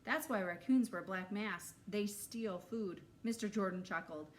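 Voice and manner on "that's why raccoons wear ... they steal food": playful. Acted. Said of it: "Ralphie chimed in".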